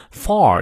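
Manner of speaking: "far" stressed and drawn out. Shown as a demonstration. Teacher marks the words to stress, heavy stress on "far". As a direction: lean on "far" slowly. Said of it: "分别是far要重读".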